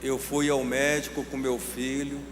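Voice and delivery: low, soft, measured storytelling; hushed and deliberate, with long pauses; solemn testimony. Retold or imitated. Preacher retelling a mother's visit to the doctor, solemn.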